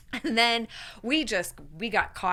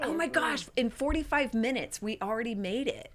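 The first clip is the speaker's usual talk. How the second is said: retold excitement; 3 semitones higher, 3 dB quieter than usual. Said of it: "we were so excited, and we thought".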